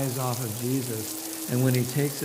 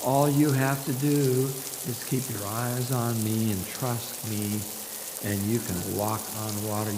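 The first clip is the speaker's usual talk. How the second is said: gentle reassurance; 4 semitones lower, 4 dB quieter than usual. Acted. Jesus reassures softly.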